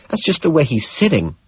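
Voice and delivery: exasperated. Acted. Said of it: "she says, exasperated".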